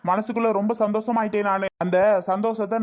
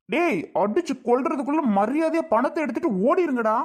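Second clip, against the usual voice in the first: higher-pitched threatening outburst; angry threat; 4 semitones higher than usual. Acted. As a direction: warn them off angrily. Acted threat to chase rivals off.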